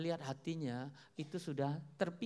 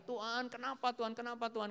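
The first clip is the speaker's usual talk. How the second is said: mock cry out; 6 semitones higher than usual. Believers in trouble ask God why, mock cry out. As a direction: imitate people crying out to God. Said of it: "kayaknya kita teriak".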